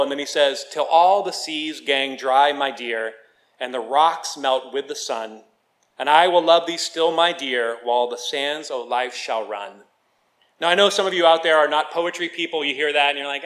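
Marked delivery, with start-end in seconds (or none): 0.7-9.8 measured reading of a love poem; poem recitation. Acted. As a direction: recite it line by line, easing down at the ends. Recites Burns poem to congregation.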